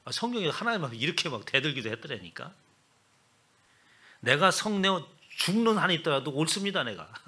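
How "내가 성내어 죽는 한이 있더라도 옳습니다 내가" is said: arguing back. Retold or imitated. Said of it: "그렇게 따지는 거예요".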